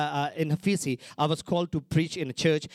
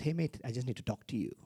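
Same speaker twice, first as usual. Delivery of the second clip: put-on Aussie accent; 4 semitones lower, 8 dB quieter than usual. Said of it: "See, I'm learning Aussie".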